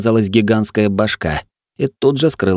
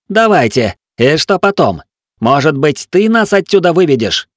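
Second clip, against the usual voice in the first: high, loud contemptuous dressing-down; scornful tirade; 6 semitones higher, 3 dB louder than usual. A narrator's reading. Tiel berates the mutinous crew, scornful loud tirade. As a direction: tear into them with scorn.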